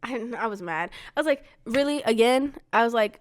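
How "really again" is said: mildly exasperated retold outburst, a little higher; mock disbelief with a touch of anger; mad, incredulous. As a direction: retell it as a fed-up challenge. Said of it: "I was, I was mad".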